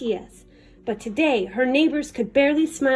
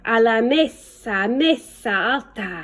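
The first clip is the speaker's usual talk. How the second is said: slow, drawn-out snake hiss in Spanish; 3 semitones lower, slower than usual. Acted. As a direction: stretch each word like a snake. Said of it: "hissed the snake".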